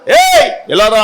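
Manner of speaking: a sharp summoning call. Retold or imitated. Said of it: "అన్నాడు". (గట్టిగా పిలవడం)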